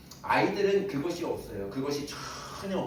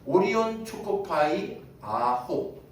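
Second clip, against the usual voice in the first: put-on high, slow child-like reading; child reading aloud; 6 semitones higher, 4 dB louder, slower than usual. Preacher imitates child reading the snack label, slow high sounding-out. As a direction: sound it out slowly like a little kid. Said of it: "그 아이가 이거를 읽는데".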